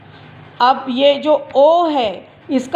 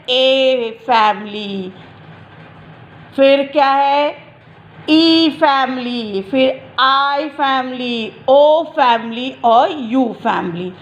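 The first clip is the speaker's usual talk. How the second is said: slow listing; slower than usual. Shown as a demonstration. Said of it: "letter sound family क्या है".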